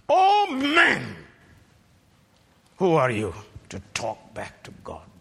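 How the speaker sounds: quoted rebuke. Shown as a demonstration. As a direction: cry out the verse as God's rebuke. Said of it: "Verse twenty, the first part".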